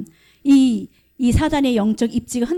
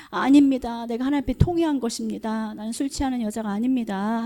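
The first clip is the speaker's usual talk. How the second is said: imitated earnest plea. Preacher voices the accused woman answering the priest, earnestly pleading. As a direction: protest humbly, acting out an earnest prayer. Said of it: "하고 이렇게 간절히 기도하는데".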